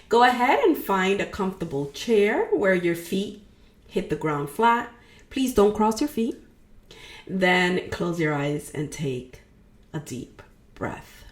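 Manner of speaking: unhurried meditation guide, pausing between phrases; guided meditation. Real, not acted. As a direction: guide a listener gently into releasing, leaving room to breathe.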